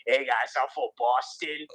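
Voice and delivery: laughing through a hammed-up Boston accent; goofing on a Boston guy, broad and jokey; mock Boston accent. Podcast host mocking Boston accent to cohost, laughing. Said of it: "that is the Boston".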